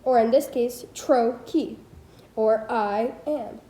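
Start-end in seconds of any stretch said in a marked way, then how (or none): 0.9-1.8 TRO-key, split in two with weight on TRO; trochaic stress. Shown as a demonstration. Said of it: "in which the first is stressed". 2.7-3.6 slow "I am", weight on the I; trochaic stress. Shown as a demonstration. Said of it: "in which the first is stressed".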